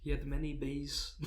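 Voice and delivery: bad presidential impression slipping into Borat; lightly voiced, badly faked politician; Trump. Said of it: "Just Borat".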